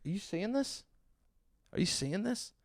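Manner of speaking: high, disbelieving plea to onlookers; squeaky mock disbelief; incredulous "are you seeing this". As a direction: pitch it way up like you can't believe what's happening.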